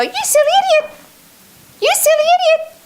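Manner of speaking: very high, squeaky, daft cartoon voice; mock your inner critic in a ridiculous squeal; silly squeaky voice. Shown as a demonstration. Sales coach mocking her inner critic, very high silly squeak. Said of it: "Just do something stupid to just desensitize it".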